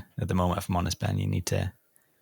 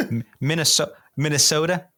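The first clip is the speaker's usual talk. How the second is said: put-on Minnesota accent; 5 semitones higher than usual. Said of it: "Or like".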